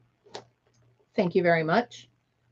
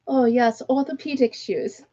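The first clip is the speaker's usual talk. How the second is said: mock British accent, raised on the last words; 3 semitones higher than usual. Retelling the older woman's remark on sandals, mock British accent. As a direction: mimic a British woman, lightly. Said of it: "she had this British accent".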